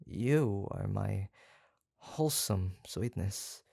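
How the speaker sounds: tender. Acted. Tender confession to captive.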